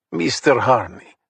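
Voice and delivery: put-on slow Russian-accented greeting; heavy Russian accent. Old thug greeting the detective at his door, heavy Russian accent. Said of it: "still with the heavy accent".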